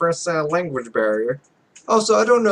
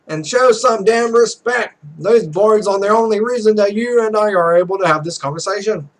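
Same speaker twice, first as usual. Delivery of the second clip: indignant; 3 semitones higher, 5 dB louder than usual. Acted. The character scolds her partner for disrespecting the boards. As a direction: demand respect, sharp and stern.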